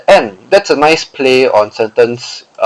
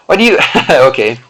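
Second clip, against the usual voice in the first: laughing. Real, not acted. Laughs at repeated each.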